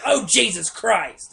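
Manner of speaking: slow, drawn-out "Oh, Jesus Christ!" with a sigh; exasperated customer. Retold or imitated. Redoing the old lady's sigh for his friend, slow. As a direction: sound put-upon by the cashier. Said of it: "the exact voice I just did".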